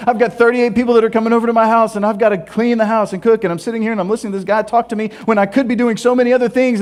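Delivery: flustered, racing through the to-do list; mock anxious fretting. Host fretting about thirty-eight dinner guests, mock anxious and rushed. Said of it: "the anxiety is just like".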